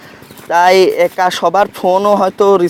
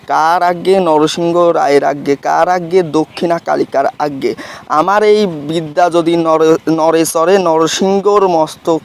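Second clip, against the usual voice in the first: measured, rhythmic verse recitation of a mantra; reciting a spell. Shown as a demonstration. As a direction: intone the incantation line by line, steady beat.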